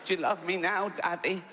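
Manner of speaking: mock feeble dying little voice; the dying posh boy pleads, lightly put-on; dying child voice. Son dying on the rug, a hint of a pleading little voice. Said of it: "In little fucking dying words".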